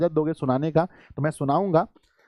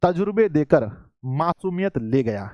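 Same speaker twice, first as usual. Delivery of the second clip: shayari recital. Real, not acted. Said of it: "बहुत ही प्यारी शायरी लिखी है".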